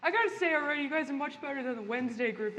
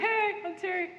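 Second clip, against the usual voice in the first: lightly voiced ghost Terry. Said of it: "He's like".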